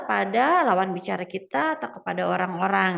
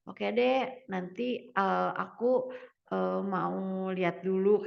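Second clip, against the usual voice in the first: softer, halting, noncommittal reply; hesitant, still confused; 3 semitones lower, 3 dB quieter than usual. Acted. Teacher acting someone putting off a suggestion, hesitant. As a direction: put it off with unsure pauses. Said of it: "kayak dia masih bingung".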